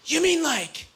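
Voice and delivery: high, wide-eyed innocent gasp and question; most innocent voice. Retold or imitated. Buddy innocently asks the comedian, in a high naive voice. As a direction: play it totally naive and sweet. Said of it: "in the most innocent voice I've ever heard".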